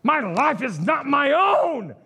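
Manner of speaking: weary plea to God, rising at the end; a frustrated prayer building up; complaining to God. Retold or imitated. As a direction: whine your tiredness to God. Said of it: "I'm like".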